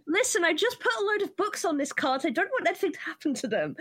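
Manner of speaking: high, urgent in-character objection; protective protest. Acted. Party member guarding books from firebombs on the cart, protective protest.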